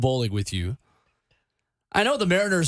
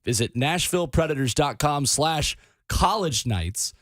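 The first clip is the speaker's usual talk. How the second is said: radio contest promo; 3 semitones higher than usual. Acted. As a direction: spell out the phone number. Promo read.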